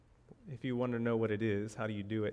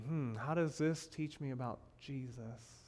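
mock pondering; 7 dB quieter than usual. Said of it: "you're gonna be meditating".

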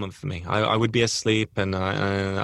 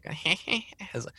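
high cackle, breathy and close; a creepy giggle right at the ear; a soft crone titter; hag laughing in ear; 8 semitones higher, 6 dB quieter than usual. Retold or imitated. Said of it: "she's laughing right in my ear".

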